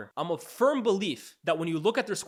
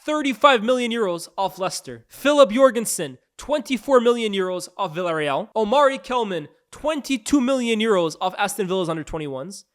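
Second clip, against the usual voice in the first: louder, pushing through a long list of names; loud list read-out; 4 dB louder than usual. Real, not acted. Vlogger reading Chelsea's signings to viewers, loud and relentless. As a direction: rattle off the signings without stopping. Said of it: "let me read this off".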